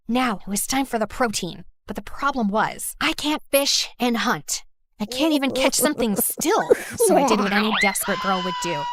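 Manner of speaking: ordinary talk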